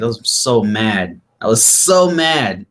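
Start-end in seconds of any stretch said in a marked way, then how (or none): 1.4-2.7 higher, slow, breaking into a laugh; laughing at himself. Real, not acted. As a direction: repeat it, cracking up at the memory.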